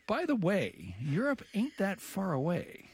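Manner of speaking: sly diplomatic hint, drawn out at the end; crafty aside. Acted. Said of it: "as in crafty, to say".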